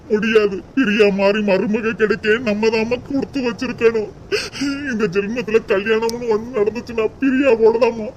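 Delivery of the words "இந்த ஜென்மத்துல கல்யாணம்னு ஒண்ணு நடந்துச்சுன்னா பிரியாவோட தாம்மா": tearful threat. Acted. Son threatens mother tearfully.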